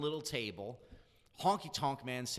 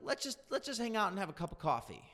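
imitating Honky Tonk Man; 7 semitones higher than usual. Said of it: "He's like".

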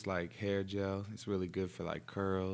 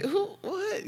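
startled. Retold or imitated. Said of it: "I'm like".

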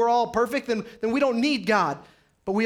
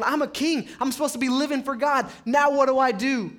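higher, distressed king; David's despair; 5 semitones higher than usual. Retold or imitated. Preacher voicing King David's anguish, higher and pleading. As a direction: voice the king at a loss.

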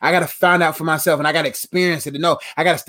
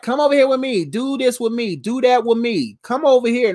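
a higher, luring call to come along; coaxing bad friend; 4 semitones higher than usual. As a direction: tempt him over like a friend who pulls you back. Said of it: "Pullers gonna be like".

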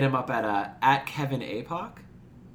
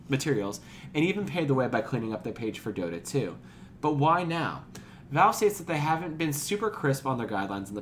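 steady news-anchor read of a story. Acted. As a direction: read it like a podcast news segment. Reads a news segment.

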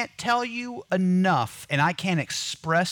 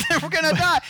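mock panic; 13 semitones higher, 4 dB louder, faster than usual.

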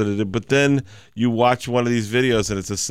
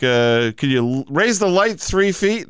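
higher voice over a radio; 6 semitones higher than usual. Retold or imitated. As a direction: call it over a walkie-talkie. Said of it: "He's like".

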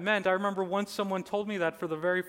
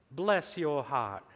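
put-on Southern accent; slower than usual. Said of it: "In your southern accent".

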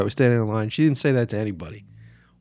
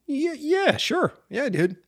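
higher, airy overconfident yes; mock breezy confidence; 14 semitones higher than usual. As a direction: brush it off like you've got this. His cocky answer retold.

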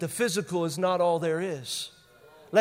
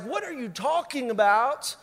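mock disbelief, bursting loud and high on Hello; acted exasperation that jumps up at the end; incredulous; 5 semitones higher, 7 dB louder, slower than usual. Servant challenging the calm prophet, incredulous and loud at the end.

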